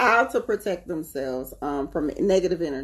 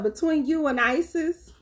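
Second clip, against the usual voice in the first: retold scolding; 10 semitones higher than usual. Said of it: "I was like".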